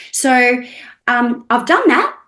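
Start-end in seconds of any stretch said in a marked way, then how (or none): 1.5-2.1 defensive. Retold or imitated. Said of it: "Why are you asking a question?".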